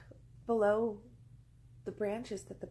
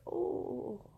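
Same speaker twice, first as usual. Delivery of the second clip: contented bird oh; 3 semitones higher, 3 dB louder than usual. Acted. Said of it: "and he's like".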